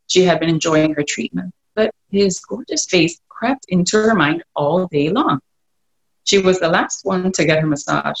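calm storybook reading voice; story narration. A narrator's reading. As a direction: read it like an audiobook. Reads novel excerpt aloud.

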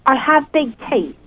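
"I have big teeth" in the caller's own British accent, on cue. Real, not acted. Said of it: "in your amazing accent, could you say".

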